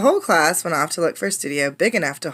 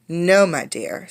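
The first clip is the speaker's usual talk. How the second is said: sighing; slower than usual. Acted. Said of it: "said Madame Lucille with a sigh".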